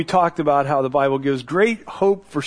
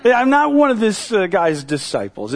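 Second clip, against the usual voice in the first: higher, louder flat refusal; blatant rebuttal; 5 semitones higher, 4 dB louder, slower than usual. Retold or imitated. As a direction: slam the door on it. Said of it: "a much more blatant rebuttal".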